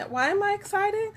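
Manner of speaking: hammed-up happy crying; mock crying. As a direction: pretend to sob over being so excited. Overexcited about Thursday.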